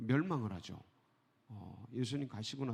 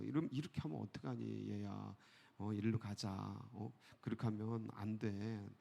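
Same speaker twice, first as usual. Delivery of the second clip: softer, lower parent gently reasoning; kindly coaxing; 3 semitones lower, 4 dB quieter than usual. Retold or imitated. Parents talking a straying child round, kindly coaxing. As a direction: coax a child back, softly. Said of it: "엄마가 그냥 좋은 얘기로 하잖아요".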